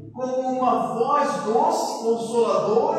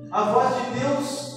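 ordinary talk

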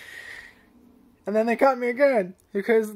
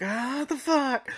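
squirrel voice; 5 semitones higher, much slower than usual. Retold or imitated. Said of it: "and they're like".

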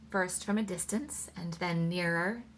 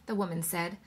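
plain reading voice

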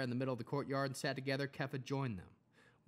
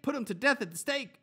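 high, loud chant of the demand; repeated mob yell; 11 semitones higher, 7 dB louder than usual. Acted. Crowd repeating its demand to Pilate, high and loud. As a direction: yell it once more as the mob. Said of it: "they yelled".

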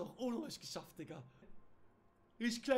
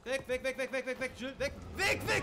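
very high, very loud screaming; real screaming; 6 semitones higher, 11 dB louder than usual. Real, not acted. Gamer fleeing the monster, screaming in terror. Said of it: "Ich darf nicht schreien".

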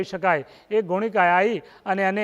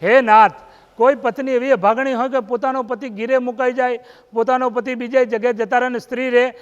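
higher pleading cry, opening with a loud "હે નાથ"; pleading wife; 4 semitones higher, 3 dB louder than usual. Acted. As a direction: beg her husband, voice lifted. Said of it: "તારાવતીએ કાકલુદી કરી". (ઊંચા સાદે પતિને કાકલુદી કરતી પત્ની)

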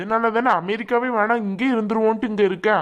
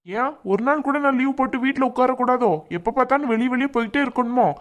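raised, irritated husband snapping back; angry retort; 4 semitones higher than usual. Acted. Husband angrily questions wife's day off, raised pitch. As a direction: pitch up, sharp and accusing. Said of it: "ஏன் தேவையில்லாம என் மேல கோவப்படுறீங்க".

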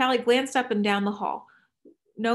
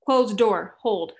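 quick command; 6 dB louder, much slower than usual. Acted. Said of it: "he said quickly".

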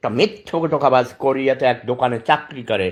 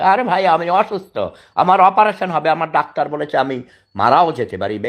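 exasperated outburst; 4 semitones higher than usual. Real, not acted. Exasperated plea about his illness.

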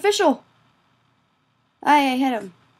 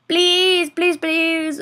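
pleading; 4 semitones higher, much slower than usual. Real, not acted. Begging in the game.

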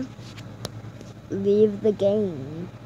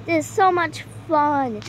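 on a trampoline; 3 semitones higher than usual. Real, not acted. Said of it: "I'm bouncing on the little trampoline".

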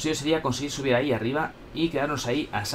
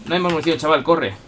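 loud, higher panicked cry; panicked shout; 3 semitones higher, 4 dB louder than usual. Real, not acted. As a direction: panic when the gun runs dry. Out of ammo panic.

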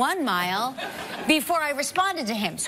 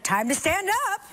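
robotic watch voice; 7 semitones higher than usual. Retold or imitated. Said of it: "the watch is like".

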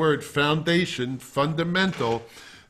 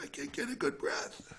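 tense, breathless panic; 13 dB quieter than usual. Retold or imitated. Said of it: "you feel like".

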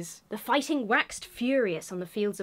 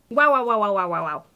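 louder string of wows; amazed wows; 7 dB louder, faster than usual. Real, not acted. Amazed at land card art, excited. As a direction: gasp out wonder.

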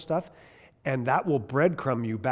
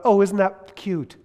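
mock cooing; 5 semitones higher, 6 dB louder, slower than usual. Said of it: "It's not a".

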